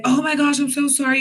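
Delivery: gushing apology, pitched a bit up; mock apologetic. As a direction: imitate coworkers fussing in sympathy. Coworkers' apology voiced in retelling.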